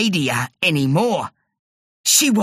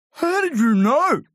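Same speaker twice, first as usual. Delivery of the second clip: put-on amazed boy; 9 semitones higher than usual. A narrator's reading. Terry amazed.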